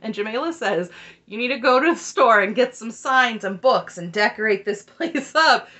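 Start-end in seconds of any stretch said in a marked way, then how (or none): 1.3-5.7 loud, laughing through the quote; amused, raised-voice imitation of a dig; laughing retort. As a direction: retell a jab, breaking into laughter. Laughing while quoting a sharp retort.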